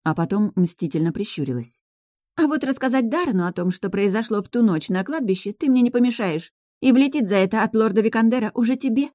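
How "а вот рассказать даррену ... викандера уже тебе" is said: smug. Acted. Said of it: "столько самодовольства".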